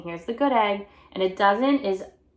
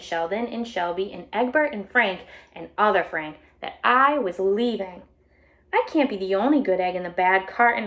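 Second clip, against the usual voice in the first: bright storybook read-aloud voice; animated picture book reading; reading to children. A narrator's reading. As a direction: read it out to a class of kids.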